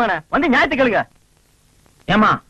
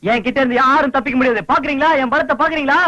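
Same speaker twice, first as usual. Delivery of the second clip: blustering threat, climbing in pitch; threatening boast; 3 semitones higher than usual. Acted. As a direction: puff yourself up and dare them, voice rising. Threatening boast during mango quarrel.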